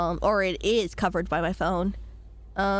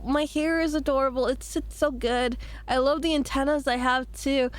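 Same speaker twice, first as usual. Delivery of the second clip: put-on light cute baby voice; 3 semitones higher than usual. Shown as a demonstration. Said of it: "baby voice".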